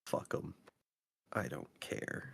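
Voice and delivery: low, soft sick voice; croaky tired voice. Real, not acted. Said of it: "I'll just talk like this".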